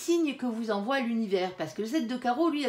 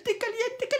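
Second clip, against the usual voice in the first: caliente squealed much higher; playful squeal; 12 semitones higher than usual. Acted.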